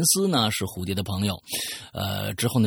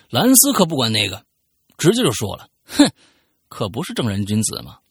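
reading a listener's letter aloud, storyteller style; story narration; 3 semitones higher than usual. Acted. Host reading a listener's letter on air, storytelling narration.

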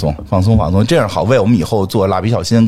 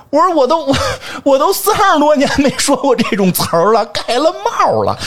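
excited; 14 semitones higher than usual. Real, not acted. Exclaiming at old Beijing slang.

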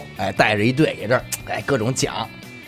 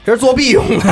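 put-on Beijing accent; 10 semitones higher, 5 dB louder, faster than usual. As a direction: say it in thick Beijing dialect. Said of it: "操着一口流利的京腔儿".

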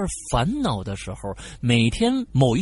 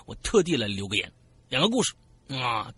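normal talking voice

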